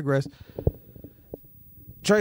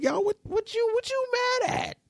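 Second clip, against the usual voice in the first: incredulous call-out; 4 dB louder than usual. Retold or imitated. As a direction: hype him up, almost shouting. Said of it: "I'm like".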